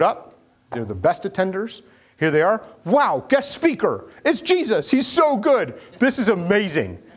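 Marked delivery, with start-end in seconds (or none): 2.8-7.0 mock gushing. Churchgoers gush over Jesus.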